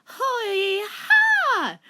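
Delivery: high, loud shrieking kiai; shrill war cry; battle cry. Acted. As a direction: yell it like a martial artist attacking. Fighting cry in story.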